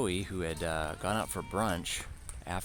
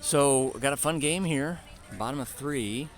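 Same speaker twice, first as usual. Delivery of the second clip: energetic announcer; 8 semitones higher, 7 dB louder than usual. Acted. Loud restart of broadcast.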